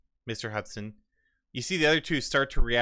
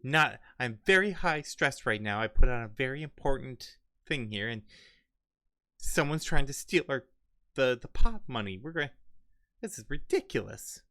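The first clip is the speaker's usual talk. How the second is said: higher, frazzled and fast-talking; high stressed complaint; 4 semitones higher than usual. Acted. Stressed host complaining about the stolen money, high and frazzled. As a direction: sound frantic and put-upon.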